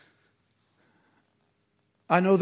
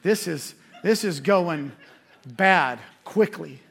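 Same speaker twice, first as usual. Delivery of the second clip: slow, laughing oh no; laughing at his own panic, slow; laughing dread; 4 dB louder, slower than usual. Retold or imitated. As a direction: chuckle through it as it goes bad. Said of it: "I was like".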